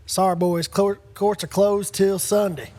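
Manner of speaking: slow, easy Alabama drawl, lightly done; retelling the Alabama court attendant turning them away, light Alabama accent. Retold or imitated. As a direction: imitate the Alabama court guy, unhurried. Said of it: "great s-, Alabama accent".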